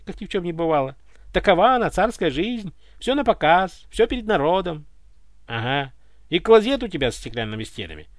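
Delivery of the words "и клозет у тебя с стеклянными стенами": joyless joke. Acted. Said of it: "пошутил невесело Иван".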